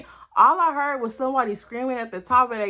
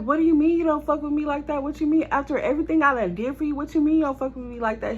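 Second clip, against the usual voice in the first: fast indignant protest; 5 semitones higher, faster than usual. Retold or imitated. Arguing with boyfriend.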